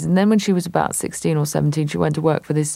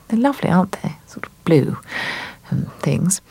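Marjorie; 3 semitones higher than usual. Acted. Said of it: "she's looking at all these pictures and saying".

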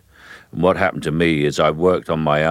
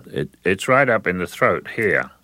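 voice in the throat; 3 semitones higher than usual. Shown as a demonstration. Caine showing where a Cockney voice sits, up in the throat. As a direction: voice pushed up into the throat. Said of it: "I'll try and get up there".

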